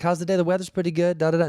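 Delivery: the friendly lift guy he is not; chatty attendant. Retold or imitated. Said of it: "loose and chatty".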